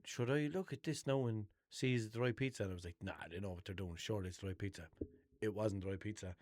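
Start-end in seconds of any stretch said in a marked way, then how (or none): 0.0-4.9 inner thought, hushed. Retold or imitated. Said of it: "I was thinking".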